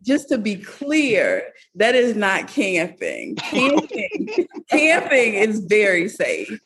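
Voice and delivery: slow, drawn-out emphasis on "camping"; emphatic clarification. Real, not acted. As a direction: set the record straight, slowly, leaning on "camping", a laugh breaking in. Correcting the idea of camping.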